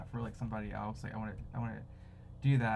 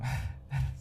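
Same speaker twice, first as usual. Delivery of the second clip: nervous laugh. Real, not acted. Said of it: "nervous laugh".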